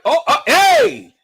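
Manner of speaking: high, loud, stretched hey; mock interruption. Commentator imitates World Media butting in, high mock holler. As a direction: butt in with a high mocking holler. Acts out the other person interrupting.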